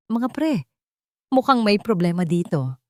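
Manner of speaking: a hint of a calm, firm young man; calm but firm. Mechanic calmly warns the loitering men, firm. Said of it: "Kalmado, ngunit may diin".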